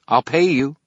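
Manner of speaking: high, loud, urgent plea; urgent girl voice. A narrator's reading. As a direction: blurt it out, high and pressing. Merrill blurts offer.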